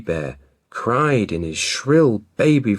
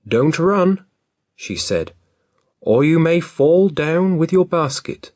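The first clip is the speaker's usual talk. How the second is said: mother's voice; 5 semitones higher than usual. Acted. Mother instructing daughter.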